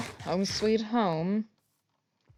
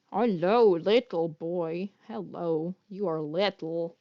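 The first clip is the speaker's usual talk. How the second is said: cooing to cat; 2 semitones lower, slower than usual. Real, not acted. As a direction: coo gently at the little cat.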